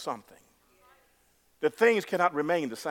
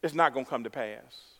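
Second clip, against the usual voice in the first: softer, deflated; doubting mutter; 5 semitones lower, 6 dB quieter than usual. Pretend. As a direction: let the doubt slip out quietly. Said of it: "and you say".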